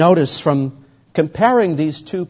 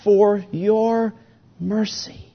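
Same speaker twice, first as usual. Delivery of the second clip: pleading prayer; 3 semitones higher, slower than usual. Acted. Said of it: "he says".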